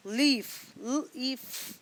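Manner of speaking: each letter sound said apart. Shown as a demonstration. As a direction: split the word into its separate sounds. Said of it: "ई जो है वो अपनी long sound निकाल रहा है".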